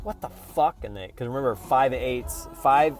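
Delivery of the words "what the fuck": mock shocked outburst, pitched high; startled fives. A five hugged by a stranger blurts out, shocked. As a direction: play the hugged five, caught off guard. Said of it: "they're like".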